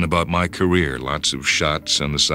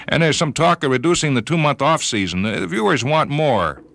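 put-on higher, chatty voice of an old friend; Cletus; 6 semitones higher than usual. Old friend listing rule changes to John, higher voice. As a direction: talk money casually, a little uneasy.

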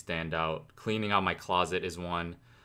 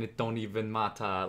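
lightly imitated Jamaican accent; 2 semitones higher than usual. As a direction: say it with a hint of Jamaican vibe. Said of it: "get the Jamaican vibe into it".

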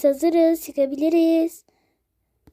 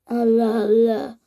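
exasperated whisper; 4 semitones lower than usual. Acted. Bıkkın ebeveyn.

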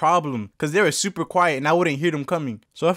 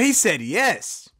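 surprised yes; 3 semitones higher, much slower than usual. Real, not acted. Surprised at customer's answer.

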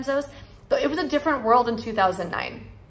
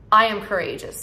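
affirmation. Shown as a demonstration. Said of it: "Say it with me".

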